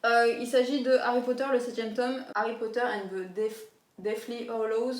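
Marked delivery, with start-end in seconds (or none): 2.3-5.0 a French speaker's mock English accent. Shown as a demonstration. French booktuber reading an English title, mock English accent. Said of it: "Savourez mon accent anglais".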